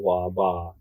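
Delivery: imitated Cockney, "Wa, ba" with t sounds dropped; Cockney accent. Showing how Hackney locals talk, Cockney accent. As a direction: drop the consonants as in Cockney. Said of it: "their accent is Cockney. They say".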